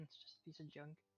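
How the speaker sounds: very soft whisper. In a role-playing game the narrator voices Elise, whispering under her breath. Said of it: "Elise whispers under her breath".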